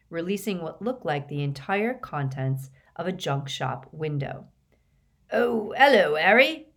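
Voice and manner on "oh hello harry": loud, high, falsely casual greeting; forced airy cheer, pitched up; unconvincing airiness. A narrator's reading. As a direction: feign breeziness, a bit too loudly. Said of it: "most unconvincing stab at airiness".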